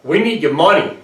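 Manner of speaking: loud, high pleading; hammed-up desperate begging; mock plea for cash. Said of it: "Easy, brother, don't beg".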